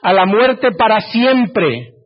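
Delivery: slow, weighty reading of the prophecy; measured pulpit reading; solemn scripture reading. Acted. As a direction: read it slowly like holy words.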